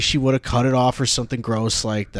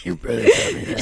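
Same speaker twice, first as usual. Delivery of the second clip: mock high squeaky voice; faster than usual. Mocking the edgelord quote.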